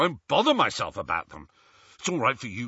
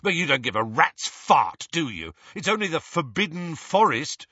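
higher, louder, bitter tirade; angry rant; 8 semitones higher, 4 dB louder than usual. Acted. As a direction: rant at him, hurt and furious. Ron's angry rant at Harry.

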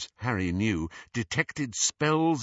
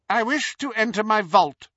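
haughty Bellatrix voice; 11 semitones higher, 5 dB louder than usual. Acted. Hermione as Bellatrix demands.

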